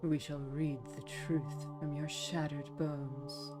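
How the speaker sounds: softly menacing, slow villain queen; a quiet, cold villain threat; soft Dark Queen. Acted. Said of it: "very soft Dark Queen".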